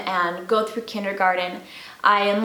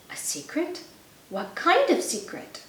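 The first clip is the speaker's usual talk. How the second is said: put-on curious child voice; 6 semitones higher, 5 dB quieter than usual. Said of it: "looked interested".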